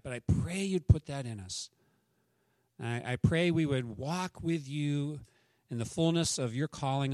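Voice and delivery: earnest, unhurried pulpit prayer. Acted. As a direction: pray it over the people, gently. Leads the congregation in prayer.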